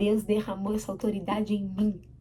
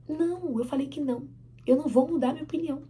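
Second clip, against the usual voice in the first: acted mother, raised pitch, standing firm; firm parental refusal; 4 semitones higher than usual. Mother not changing her mind for the child, firm. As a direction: cut off the child's protest.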